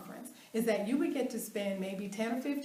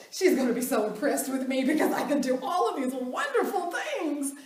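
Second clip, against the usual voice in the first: smug inner voice; 3 semitones higher, 6 dB louder than usual. Retold or imitated. Retold smug inner thought.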